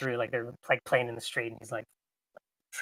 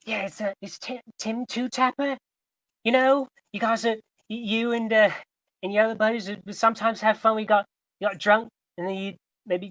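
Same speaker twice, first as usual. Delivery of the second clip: put-on eager cracking teen voice; 5 semitones higher than usual. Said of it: "he'd say".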